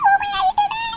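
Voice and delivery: crying. Acted. Mother laments to her daughter.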